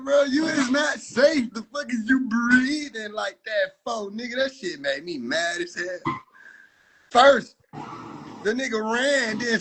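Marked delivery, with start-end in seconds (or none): 0.0-4.4 shouting at the AI runner; yelling at the screen. Retold or imitated. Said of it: "I'm like".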